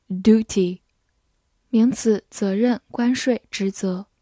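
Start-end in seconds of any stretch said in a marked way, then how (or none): 0.1-0.8 American "duty", said "doo-tee"; American pronunciation. Shown as a demonstration. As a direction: say "duty" the American way, without y-glide. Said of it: "美式发音也可以读作". (duty美式读音，不带y音)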